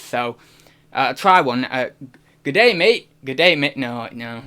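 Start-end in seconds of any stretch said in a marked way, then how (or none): 2.4-3.1 attempted Australian accent, pitched up and loud; bad Australian accent. Shown as a demonstration. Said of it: "I can't do American or Australian accents". 3.2-3.8 half-hearted Australian accent attempt; bad Australian accent. Shown as a demonstration. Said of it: "it's not very good".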